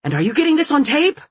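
loud, high urgent shouting; shouts. A narrator's reading. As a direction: yell out over a scuffle. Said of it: "I hear shouts".

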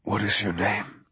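wounded man, barely audible; weak voice. Acted. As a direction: ask it with the last of his strength. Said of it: "his voice at its weakest point yet".

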